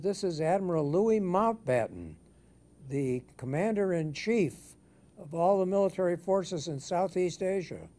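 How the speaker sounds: high, pompous British admiral; Louis Mountbatten. Retold or imitated. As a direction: announce your rank grandly in a British accent. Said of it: "said this in a very British accent".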